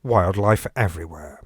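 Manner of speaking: Radio Four announcer promoting a wildlife show; radio trailer. Acted. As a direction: sell the show like a continuity announcer.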